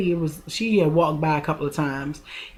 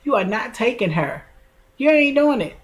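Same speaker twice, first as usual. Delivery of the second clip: mock-bossy older sister shutting down the argument; sister putting her foot down; 6 semitones higher than usual. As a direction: sister forbids taking the baby, high and insistent. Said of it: "And she was like".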